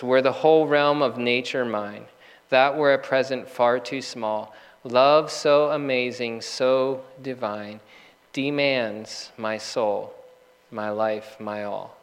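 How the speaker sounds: slow, reverent recital of a hymn verse; solemn hymn reading, fading on the last words; hymn recitation. Acted. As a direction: savour each line of the hymn, slowing into the end.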